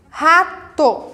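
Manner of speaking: "Rato" split in two, ra-to; two separate beats on "Rato"; syllable by syllable. Shown as a demonstration. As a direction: pause between the syllables of "Rato". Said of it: "Rato tem duas sílabas".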